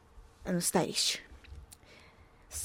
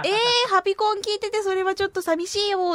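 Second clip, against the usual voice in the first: mock disappointment; 8 semitones higher than usual. Host to listeners buying another console, playfully let down. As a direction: whine playfully that you feel let down.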